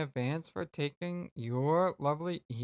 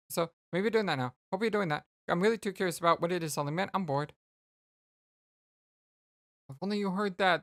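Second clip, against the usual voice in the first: quick, lightly raised chatter; chatty Roxy; 3 semitones higher, faster than usual. Acted. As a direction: babble at her bestie. Reads Roxy's messages aloud.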